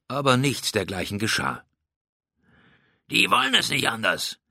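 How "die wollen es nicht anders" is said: raised, high-pitched calling voice; called out. A narrator's reading. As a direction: call it out to the crew. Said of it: "rief Drake".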